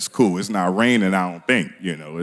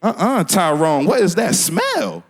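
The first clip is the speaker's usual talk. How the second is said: suspicious mother; slower than usual. Acted. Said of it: "She was sniffing around. She was like".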